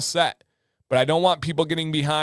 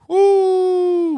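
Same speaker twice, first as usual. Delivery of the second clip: high, louder whoo; loud whoop; 7 dB louder than usual. Real, not acted. Reacting to chat's wild stories, loud high whoop.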